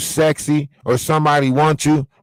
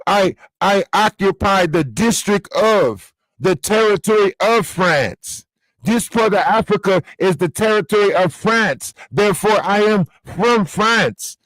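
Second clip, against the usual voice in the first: mock pompous claim; 5 semitones higher than usual. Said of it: "Y'all the only ones that'll say".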